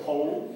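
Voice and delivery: "whole" con h aspirada, sin w; w muda. Shown as a demonstration. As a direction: di "whole" como "jou". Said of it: "no pronuncio la W". (pronunciar "whole" empezando por j suave)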